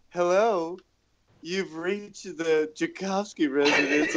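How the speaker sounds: polished phone greeting, a touch hammed up; receptionist voice. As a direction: read it like an answering machine message. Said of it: "basically the speaker trying to do a receptionist voice".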